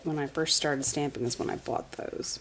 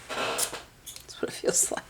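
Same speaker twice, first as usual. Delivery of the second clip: much lower, slow breathy afterthought; low slow whisper; 5 dB quieter, slower than usual. Real, not acted. Finishing her shade theory, a low whisper. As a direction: drop down and whisper it slowly.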